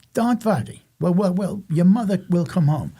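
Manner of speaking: reassuring grandmother with a German accent, imitated. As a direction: lightly put on a German accent to console. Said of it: "she had a German accent".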